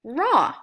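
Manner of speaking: raw with a clear drawn aw vowel; model word. Shown as a demonstration. Teacher modelling raw for kids. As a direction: say raw slowly, stretching the aw. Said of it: "Listen as I say this word".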